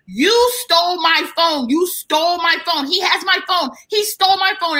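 high, whiny accusation; mock drunk woman. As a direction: mimic a drunk woman insisting they took her phone.

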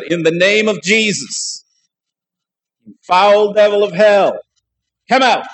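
loud, high, drawn-out command to a demon; commanding exorcism. Retold or imitated. Preacher re-enacting casting the devil out of a man, loud command.

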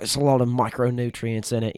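playing an Australian survival-show host; Australian accent. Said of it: "That was a good accent".

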